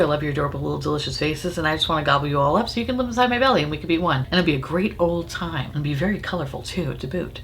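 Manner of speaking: mock-creepy cooing; silly put-on voice. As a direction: coo at them like a weird pet. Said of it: "I don't know why I'm talking like this".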